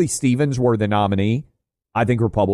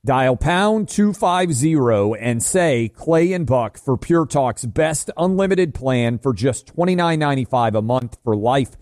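emphatic sponsor pitch; ad read; slower than usual. Acted. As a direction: pitch the deal to radio listeners. Reads a sponsor ad.

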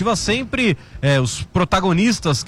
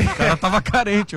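laughing; 4 semitones higher than usual. Real, not acted. Joking while laughing.

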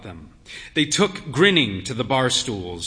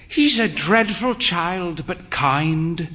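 confiding; 4 semitones higher, slower than usual. Acted. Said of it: "she confided".

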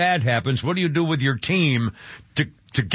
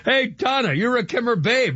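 excited shout-out; 9 semitones higher than usual. Real, not acted. Shout-out to listener Donna.

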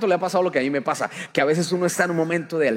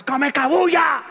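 queja exagerada; 8 semitones higher, 5 dB louder, slower than usual. Pretend. Imitando mal día.

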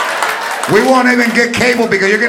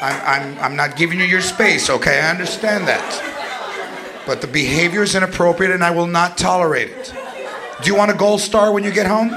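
mock calm parent; 4 semitones lower, 3 dB quieter than usual. Calm modern parent voiced.

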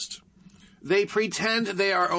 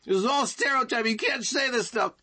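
mocking newscaster; 4 semitones higher than usual. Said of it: "leftoid newscaster in Minneapolis going".

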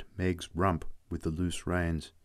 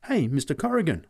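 higher, astonished call; 7 semitones higher, 3 dB louder than usual. Acted. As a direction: point out the shock. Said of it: "I said in astonishment".

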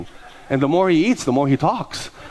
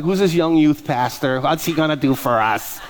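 skeptical churchgoer; slower than usual. Retold or imitated. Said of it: "looking at me like".

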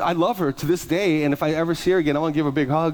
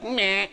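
mimicked meh; 5 semitones higher than usual. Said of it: "You just went like".

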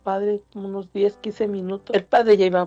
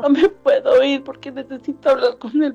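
higher, tearful-sounding begging; retold desperate plea; 3 semitones higher than usual. Son begging police to let him see the priest, retold desperate plea. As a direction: imitate someone begging not to be taken away.

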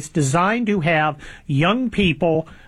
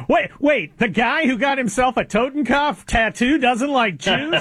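laughing; 6 semitones higher than usual. Real, not acted. Incredulous laugh at the irony.

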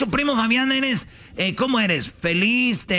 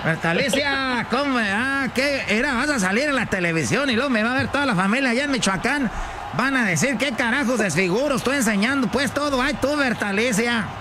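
flustered rural husband fretting aloud; exasperated country-man character, singsong; scolding ranchero husband; 3 semitones higher than usual. Acted. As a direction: scold your wife with embarrassed dismay. Plays her embarrassed ranchero husband.

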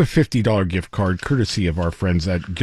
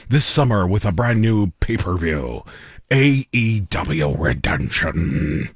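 wrestling announcer voice; 2 semitones lower than usual. Pretend. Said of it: "in my best wrestling announcer voice".

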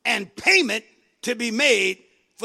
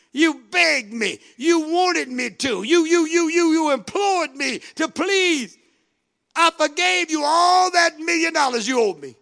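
angry master; 4 semitones higher than usual. Acted. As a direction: scold the ungrateful servant. Master rebukes wicked servant.

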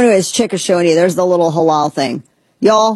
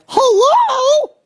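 much higher, laughing squeak; mock shocked squeak. Mocking the people who just noticed the label, in a much higher laughing squeak.

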